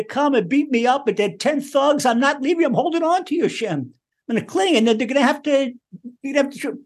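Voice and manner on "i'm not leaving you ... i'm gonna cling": stubborn clinging plea. Acted. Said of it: "you're stubborn about it".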